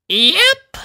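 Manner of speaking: put-on high, pleased old granny voice; satisfied old granny; smiling Granny Smith. A narrator's reading. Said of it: "smiled Granny Smith".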